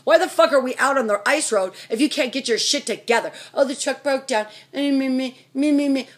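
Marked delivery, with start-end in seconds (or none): 3.5-6.1 mock his whining excuses in a babble; mimicking a complainer with scorn; mocking imitation.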